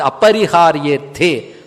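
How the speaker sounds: అపరిహార్యేర్థే said slowly as one joined word; joined Sanskrit form. Shown as a demonstration. Teacher presenting a verse word, అపరిహార్యేర్థే slow and joined. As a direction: draw out అపరిహార్యేర్థే with the two words run together.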